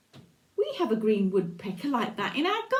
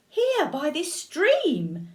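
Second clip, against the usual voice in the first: sly mouse; 4 dB louder, slower than usual. Acted. Mouse slowly teasing the owl about his fate. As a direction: draw out the threat playfully.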